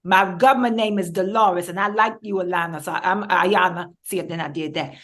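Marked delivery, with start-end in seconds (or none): 0.0-3.9 folksy, emphatic character voice with dialect vowels; Miss Lady. Acted. Character introducing their government name to the host, self-possessed character voice. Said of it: "in the case of Miss Lady".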